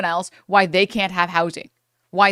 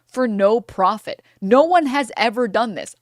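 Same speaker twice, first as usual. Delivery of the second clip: mock business bro; 4 semitones higher, slower than usual. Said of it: "they're like".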